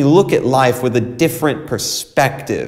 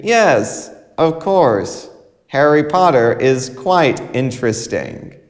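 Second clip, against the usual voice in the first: mock enthusiasm that rings hollow; insincere. Shown as a demonstration. Teacher showing students how insincere praise sounds. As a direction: say it as if you don't mean it. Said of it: "I don't sound sincere".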